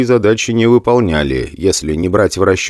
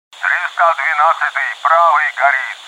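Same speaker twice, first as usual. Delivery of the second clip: much higher, tense distress call on air; over radio; 9 semitones higher than usual. Acted. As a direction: pilot on fire calling for help over radio. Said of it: "Услышал я в эфире голос сирийского лётчика". (тревожный вызов по радио, высоко)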